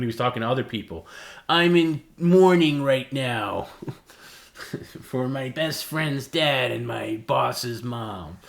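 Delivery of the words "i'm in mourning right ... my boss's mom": slow, higher, louder mock grief; mock mourner. Mocking how Perry talked to other people, hammed-up grief. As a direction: ham up his self-pity with a laugh.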